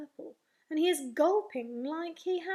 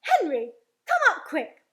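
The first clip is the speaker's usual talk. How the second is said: urgent yell; 2 semitones higher, 11 dB louder than usual. Acted. Mummy summoning Henry upstairs, urgent yell. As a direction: shout for help through the house. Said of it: "And she yells".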